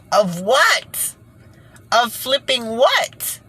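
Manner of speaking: outraged disbelief. Real, not acted. Outraged at the quoted praise.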